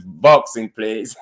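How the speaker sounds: lightly put-on English accent; mock-English delivery. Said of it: "In my English voice".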